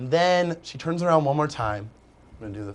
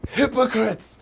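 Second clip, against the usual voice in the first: higher, indignant mock cry; indignant outburst; 9 semitones higher, much slower than usual. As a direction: spit out the word in disgust. Angry at phone-using boyfriend.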